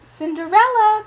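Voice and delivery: loud high call across the house. Acted. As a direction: summon her from downstairs. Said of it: "called the stepmother".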